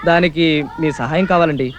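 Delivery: slow, low, tentative plea; hesitant request. Acted. Tailor asking the teacher for help, hesitant and slow. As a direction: ease slowly into asking a favour.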